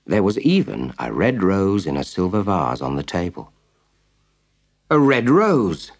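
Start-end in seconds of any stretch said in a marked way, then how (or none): 4.9-5.9 delighted slow exclamation, higher and louder; exclaiming. Acted. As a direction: cry it out in happy surprise. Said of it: "he exclaimed".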